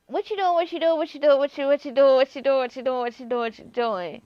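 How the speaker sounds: mock confrontation, repeated demand; angry. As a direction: pester him over and over. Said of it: "I'm gonna be like".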